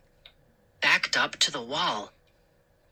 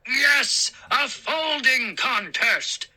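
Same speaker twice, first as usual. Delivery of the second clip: calling gnome; 8 semitones higher, slower than usual. A narrator's reading. A gnome calls from the back of the room, high gleeful shout. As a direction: call out from the back. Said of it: "another gnome cried".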